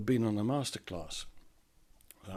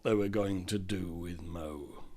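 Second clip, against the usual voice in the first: hushed whisper; 6 semitones lower, 6 dB quieter than usual. A narrator's reading. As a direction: drop to a whisper. Narrator hushes plotting villains.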